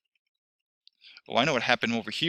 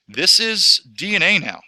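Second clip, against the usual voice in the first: higher and louder, spotlighting the key point; excited emphasis; 7 semitones higher, 8 dB louder than usual. Real, not acted. Teacher showing students the finished DNA, excited and louder. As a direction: make them look, this is the payoff.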